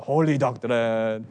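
slow, low fake German voice; weird German accent. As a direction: draw it out reverently in a bad German accent.

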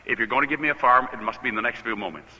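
hushed-down reverent plea; understated reverent prayer. Retold or imitated. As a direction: pray it humbly, letting the pitch sink. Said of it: "I said very reverently".

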